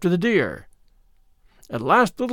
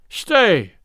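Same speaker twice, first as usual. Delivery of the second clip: cried out; 3 semitones higher, 5 dB louder than usual. A narrator's reading. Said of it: "cried Little John".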